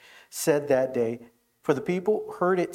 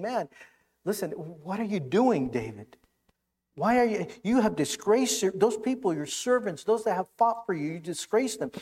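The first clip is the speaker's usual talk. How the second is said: retold rebuke; 5 semitones higher than usual. Joab rebuking David, voiced quote.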